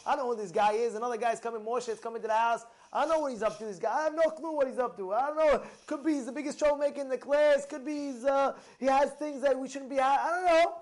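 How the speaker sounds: a worried parent imagining the worst; anxious parent. Retold or imitated. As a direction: fret out loud about the new kid. Worried parent voiced in story.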